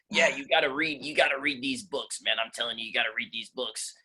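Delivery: lightly imitated old boss; John Sawyer. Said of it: "he talked like this".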